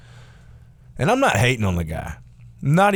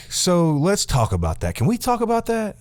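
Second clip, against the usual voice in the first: creepy Steve; 9 semitones higher than usual. Retold or imitated. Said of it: "he's like".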